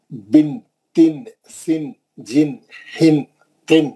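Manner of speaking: بن، تن sounded slowly, nasal n held; teacher models hidden noon sakin; slow drill recitation. Shown as a demonstration. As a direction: sound each syllable clearly. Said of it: "نون ساکن پڑھ رہے ہیں ہم".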